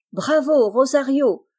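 high, loud bravo while clapping; exclaiming. A narrator's reading. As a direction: cheer him on. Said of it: "s'écrie Aurélie". (Aurélie applaudit Rosario, cri joyeux aigu et fort)

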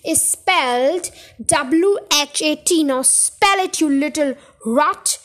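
slow, bullying classroom shout. Acted. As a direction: drill the spelling into the boy, slowly. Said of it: "The Trunchbull was shouting".

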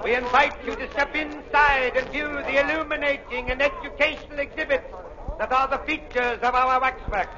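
barker calling in the crowd; ringmaster. Acted. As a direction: carnival barker pitch. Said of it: "Our lecture is just starting".

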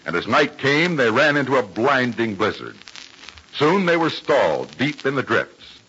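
brisk, bright announcer read; old radio announcer. Acted. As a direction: sell it like a vintage radio host. Show announcer and narrator.

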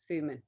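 Suman said as Soo-man, like human; Suman rhymed with human. Shown as a demonstration. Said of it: "just rhyme it with human".

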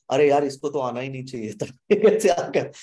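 loud frustrated aside; exasperated. Retold or imitated. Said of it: "every time I feel".

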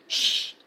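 shushing. A narrator's reading. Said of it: "Hagrid looked around quickly".

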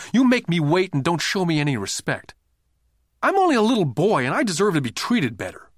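put-on high, loud child's complaint; a hurt kid accusing an adult; upset boy. A narrator's reading. Boy confronting Rich Dad.

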